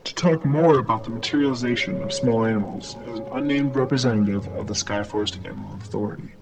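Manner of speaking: steady newscaster delivery; news read. Acted. Reads a news bulletin.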